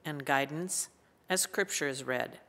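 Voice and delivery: unhurried, reverent prayer voice. Acted. Opening prayer before scripture.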